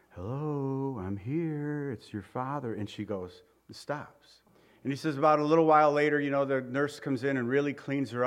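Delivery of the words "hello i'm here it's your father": soft voice to a newborn; soothing father. Retold or imitated. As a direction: gently let the baby know you are there. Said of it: "He's standing right over her, and he goes".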